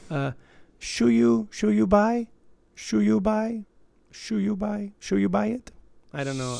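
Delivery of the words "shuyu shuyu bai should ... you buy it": high, exaggerated Asian accent, rising; a hammed-up Asian accent, pitched up; mock Asian accent asking whether to buy; terrible Asian accent. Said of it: "here's my terrible Asian accent".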